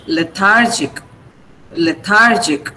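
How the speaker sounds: lethargic, slowly, with THAR stressed; slow le-THAR-gic, weight on the middle; stress on second syllable. Shown as a demonstration. Teacher models lethargic for class, stress on THAR. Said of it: "then the second syllable is stressed".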